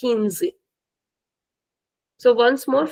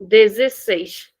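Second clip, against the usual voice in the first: dezesseis said slowly, syllable by syllable; slow model word; slow careful demo; 4 dB louder, slower than usual. Shown as a demonstration. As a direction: spell it out with your voice. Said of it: "Sixteen is dezesseis".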